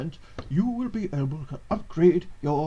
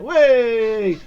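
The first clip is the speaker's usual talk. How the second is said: loud cheering shout; crowd cheer; 5 semitones higher, 10 dB louder than usual. Retold or imitated. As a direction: yell it like the crowd. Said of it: "They went".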